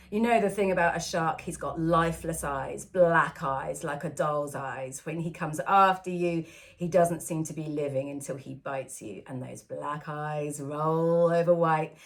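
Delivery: understated quote of a shark hunter's speech; Quint. Acted. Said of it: "Quint's description of the shark".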